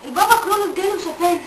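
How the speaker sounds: faint, drained voice; weak whisper. Acted. The exhausted girl faintly tells her father she was healed. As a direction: barely get the words out.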